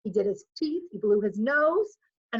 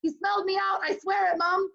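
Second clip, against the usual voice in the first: Jack voiced; 8 semitones higher than usual. A narrator's reading.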